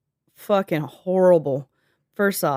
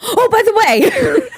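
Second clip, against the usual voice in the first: mocking high voice; 7 dB louder, much slower than usual.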